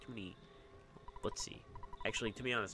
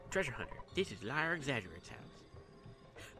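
slow, stretched-out odd voice; Liar X. Agerate voice; 3 semitones higher, slower than usual. Acted. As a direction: drag the words out like a strange hermit. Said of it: "now I don't have to do that voice".

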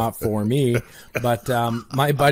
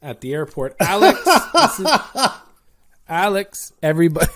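airport greeter; 5 semitones higher than usual. Pretend. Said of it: "I'd have a sign".

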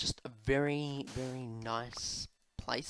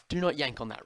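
louder, firm mock scolding; scolding a pet; 2 semitones higher, 6 dB louder, faster than usual. Player repeats the order to Rexy about the cord, scolding. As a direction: punch out the command to a pet.

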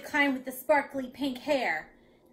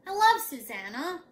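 higher, louder protest; a child conceding under protest; grumbling boy; 4 semitones higher, 8 dB louder than usual. A narrator's reading. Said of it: "he grumbled".

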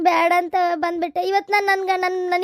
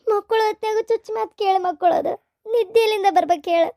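crying complaint; 4 semitones higher than usual. Acted. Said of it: "ಅಳಬೇಡ".

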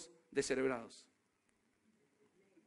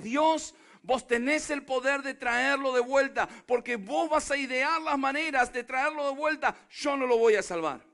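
preaching climax; 3 semitones higher, 5 dB louder than usual. Real, not acted.

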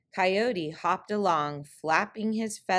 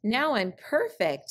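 higher, smug coyote brag; trickster tale voices; 5 semitones higher than usual. Acted. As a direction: boast it proudly. Coyote boasting.

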